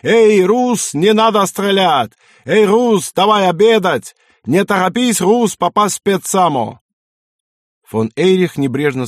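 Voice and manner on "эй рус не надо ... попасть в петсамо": high, loud, plaintive calling out; plaintive wailing. A narrator's reading. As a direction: wail it across the tundra. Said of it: "вопили над тундрой жалобными голосами".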